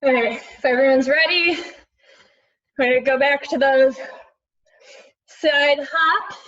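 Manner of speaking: loud workout coach call. Real, not acted. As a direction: call it out over the music. Instructor calling over workout music.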